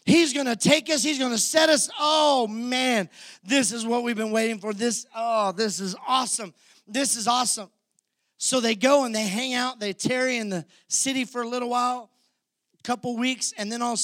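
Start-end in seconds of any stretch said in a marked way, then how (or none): 0.1-7.7 high, loud, thrilled; excited disciples. Retold or imitated. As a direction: cheer like the disciples who finally got their king. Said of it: "The disciples are like".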